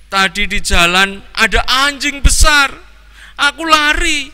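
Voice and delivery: put-on high tearful boy's voice; a frightened child explaining through tears; crying child. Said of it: "Tony sambil menangis menjawab". (anak ketakutan sambil menangis)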